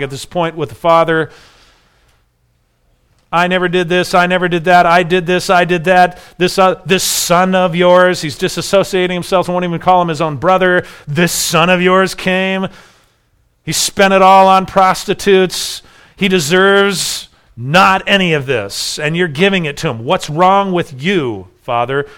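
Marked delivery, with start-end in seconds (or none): 3.3-8.2 mild accusation. Retold or imitated. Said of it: "There's an accusation going on here". 11.1-22.1 indignant accusation. Retold or imitated. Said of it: "There's an accusation going on here".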